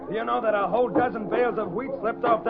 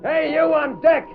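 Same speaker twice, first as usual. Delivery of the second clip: calling out; 5 semitones higher, 4 dB louder than usual. Acted. Foreman calling to crew on deck.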